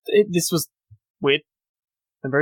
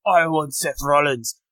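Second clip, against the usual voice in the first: self-admitted horrible Scottish accent impression; bad Drew McIntyre accent. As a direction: fumble through a Scottish accent on purpose. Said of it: "That was a horrible accent".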